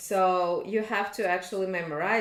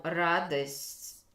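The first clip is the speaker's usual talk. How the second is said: Moscow Russian. Shown as a demonstration. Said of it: "I said a little bit with Moscow, with Russian dialect".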